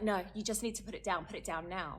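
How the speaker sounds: mock store owner snapping an order; imitating a stern order. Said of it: "She's like".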